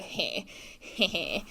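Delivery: quiet, mock little chuckle; imitated chuckle. Retelling a friend laughing at her, quiet mock chuckle. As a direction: softly imitate a friend's snickering. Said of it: "Juliana's kinda laughing at me".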